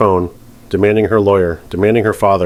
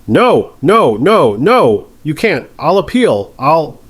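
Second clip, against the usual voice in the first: high, loud frantic pleading; panicked pleading; 7 semitones higher, 3 dB louder, much slower than usual. Acted. Defendant panicking at the verdict, frantic high pleas. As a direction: beg in rising panic.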